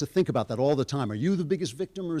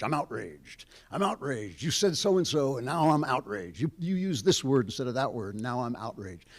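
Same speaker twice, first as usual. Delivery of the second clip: mildly indignant imitation of the outraged; mock outrage. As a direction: play at being offended, half in earnest.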